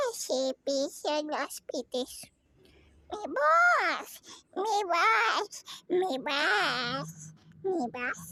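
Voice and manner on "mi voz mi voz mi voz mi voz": voice sinking. Pretend. Repeating voice, falling away.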